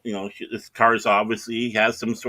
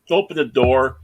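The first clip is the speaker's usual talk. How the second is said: ordinary delivery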